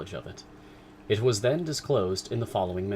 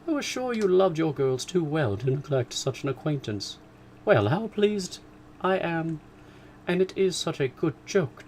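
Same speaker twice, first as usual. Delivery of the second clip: high, loud delighted gushing; wife thanking her husband in raptures; joyful raptures; 6 semitones higher, 4 dB louder than usual. Acted. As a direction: gush with delight. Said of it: "tumult of joy".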